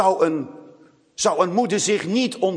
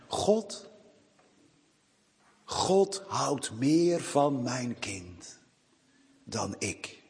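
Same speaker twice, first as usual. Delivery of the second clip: soft, slow, hushed quote of a grieving mother; mother confiding her grief, said softly and slowly; 4 semitones lower, 7 dB quieter, much slower than usual. Retold or imitated. Woman's grieving words quoted in sermon.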